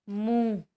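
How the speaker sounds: मुंह said firmly with open nasal vowel; teacher modelling the nasal vowel; nasal demo. Shown as a demonstration. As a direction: sound मुंह through mouth and nose. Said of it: "आवाज़ कहाँ से आती है".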